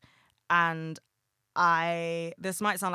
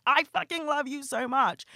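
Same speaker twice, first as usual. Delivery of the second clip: squealed high and gushing; 9 semitones higher, 4 dB louder than usual. Retold or imitated. Giving friends gifts, a high excited gush.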